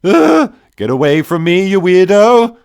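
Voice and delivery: high, loud panicked yell; alarmed shout, pitched high. A narrator's reading. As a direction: shout back over your shoulder while fleeing. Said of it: "I shouted over my shoulder".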